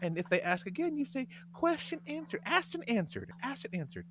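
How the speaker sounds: lampoon a gentle-parenting influencer; mocking parenting woman. Mocking a woman on TikTok giving parenting advice, prissy and soft. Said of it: "and she's like".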